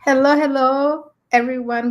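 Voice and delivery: ordinary delivery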